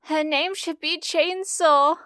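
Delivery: high excited shout. Acted. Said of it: "Uraraka shouted".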